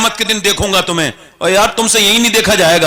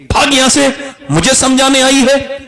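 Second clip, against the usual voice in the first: angry dismissal; 5 semitones higher than usual. Acted. Chaudhry drives the daughter away.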